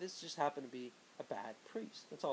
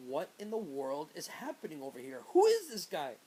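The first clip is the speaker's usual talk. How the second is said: baffled inner thought; 3 semitones higher, 6 dB louder than usual. Retold or imitated. Teen wondering about the strange priest, loud disbelief. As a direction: build to a loud incredulous who-is-this. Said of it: "And I'm thinking".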